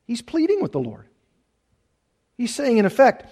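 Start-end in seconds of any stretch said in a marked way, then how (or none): none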